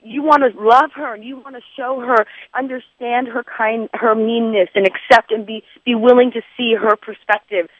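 mild mock sympathy; sympathetic mom. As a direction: coax her gently out of being mad. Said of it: "I was being sympathetic".

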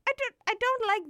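emphatic confession. Real, not acted. Emphatic confession of unpopular opinion.

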